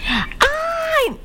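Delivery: high delighted cry; surprised shriek. Real, not acted. Host shrieking at a caller from Sweden.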